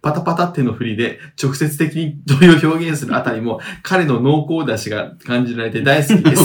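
measured reading of listener mail; letter read-aloud. Acted. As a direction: read the message out evenly.

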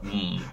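low, soft knowing hum; a quiet suspicious hmm; skeptical hmm. Retold or imitated. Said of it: "make a little face and go like".

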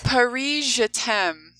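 Paris Je t'aime in a thick Midwestern American accent. Shown as a demonstration. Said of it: "Say it with a thicker Midwest accent".

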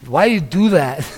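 put-on a grumpy old man, slowed down; imitating old man. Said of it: "he had that problem with his speech".

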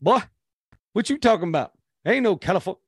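retold coach with a big Southern accent; Southern Alabama accent. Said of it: "sounded like he was from Southern Alabama".

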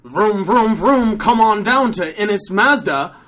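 engine-noise opener into a sales pitch; car dealer ad. Acted. Dealer advertising Mazda deals, drawn-out announcer pitch. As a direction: stretch the dealership name like an announcer.

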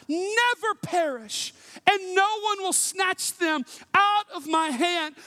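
high, slow, crying out the promise; impassioned cry. Acted. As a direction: proclaim it as if pleading with the crowd. Rereads the verse with passion.

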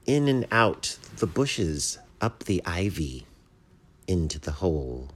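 measured, slow verse reading with pauses; deliberate storybook poem delivery; poem recitation. A narrator's reading. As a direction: recite it line by line, lingering on each image.

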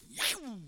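vocal whoosh of a door; swishing door sound effect; imitated door swing. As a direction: make a quick falling whoosh. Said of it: "So I grabbed that door".

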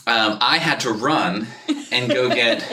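slightly winded after running; out of breath. Real, not acted. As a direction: talk while catching your breath. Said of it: "which is why I'm out of breath".

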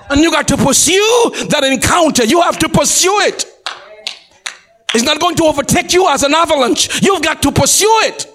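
urgent, insistent pulpit preaching; forceful exhortation. Real, not acted. Preacher urging saints to pursue the encounter, forceful exhortation. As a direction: press it on the congregation.

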